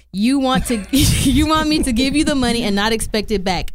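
laughing while reading. Retold or imitated. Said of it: "You said, and I quote".

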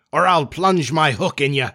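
a pirate captain's threat; lightly voiced menacing captain; Hook. A narrator's reading. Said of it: "cried Peter".

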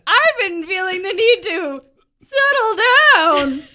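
high, loud character voice; loud, high-voiced sheriff; Johann, fond and settled.

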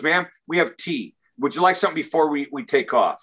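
quick, curt flight attendant brushing him off; mildly imitated brusque service voice. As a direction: rattle it off impatiently. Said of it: "she's real brusque".

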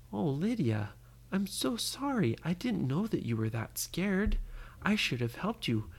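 tender apology. Acted. Ryan apologises to scared Lydia.

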